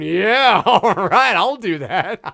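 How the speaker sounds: lightly voiced eager kid; chirpy kid agreeing, laughing; kid's voice. Kid voiced in movie commentary.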